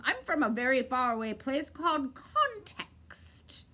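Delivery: breathy secret whisper. A narrator's reading. Bird confiding where he comes from, whispered.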